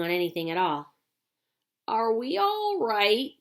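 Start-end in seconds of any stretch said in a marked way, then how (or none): 1.9-3.3 anxious cry. Acted. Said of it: "cried Grandpa Joe".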